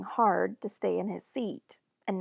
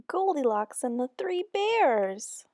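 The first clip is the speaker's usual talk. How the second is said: playful yell; 5 semitones higher, 3 dB louder, slower than usual. Acted. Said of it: "Danny yells".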